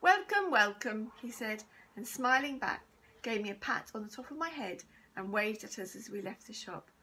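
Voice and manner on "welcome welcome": hearty welcome. A narrator's reading. Shopkeeper warm reply.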